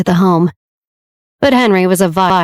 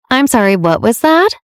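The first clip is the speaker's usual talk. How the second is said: facetious; 5 semitones higher than usual. Acted. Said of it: "Olivia asked facetiously".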